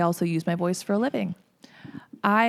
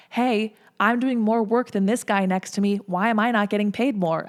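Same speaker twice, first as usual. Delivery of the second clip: a louder, mock-firm complaint; retold complaint to boss; 2 semitones higher, 5 dB louder than usual. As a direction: push for fair pay like a fed-up employee, a bit louder. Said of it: "gone to their bosses and said".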